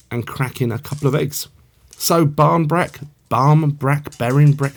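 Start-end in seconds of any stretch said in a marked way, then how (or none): 2.0-4.7 "barn brack", "barm brack", "berrin brack" said slowly and carefully, one after another; trying pronunciations. Shown as a demonstration. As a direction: sound out each version of "brack" with care. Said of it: "so many different ways of saying it".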